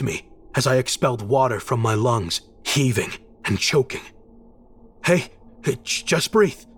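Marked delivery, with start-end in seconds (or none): 5.0-6.6 higher-pitched, halting urging; urgent reassurance. A narrator's reading. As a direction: coax someone choking to breathe. Rescuer urges choking narrator to breathe.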